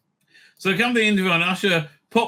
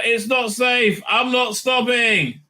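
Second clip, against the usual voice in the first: defiant shout; 5 semitones higher, slower than usual. Retold or imitated. Insisting to official.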